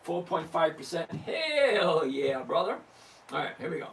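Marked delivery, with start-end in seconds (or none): 1.1-2.8 cheering. Real, not acted. Celebrating the profit.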